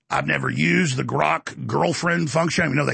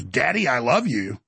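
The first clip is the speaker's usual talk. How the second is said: put-on slow, lower, flat childlike repeat; daughter parroting; 4 semitones lower, slower than usual. Nine-year-old copies what the phone said, innocently. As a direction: echo the words innocently like a kid copying. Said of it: "my nine-year-old goes".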